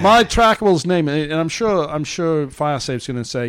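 put-on Australian or New Zealand accent; reading as him, Antipodean accent. Host reading the man's article, lightly faked New Zealand accent. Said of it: "I'm gonna read it as him".

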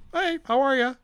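high, chirpy mock-polite hello; acted cheery hello; friendly greeting. Cheerful reply to screaming stranger.

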